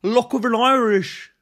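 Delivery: mock Irish cheer.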